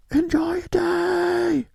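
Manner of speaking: very high, slow yelled farewell; mock far-off yell. Carl yells after the fleeing boys, very high. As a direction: call out after them like Carl. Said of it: "he's still yelling out".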